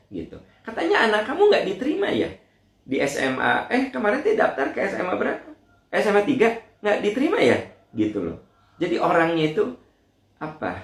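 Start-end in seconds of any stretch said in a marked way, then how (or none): 0.7-7.6 high, fast, giggling busybody; nosy gossip. Retold or imitated. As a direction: rattle off prying questions gleefully. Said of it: "ada juga orang yang memang gitu". (suara kepo tinggi dan cepat)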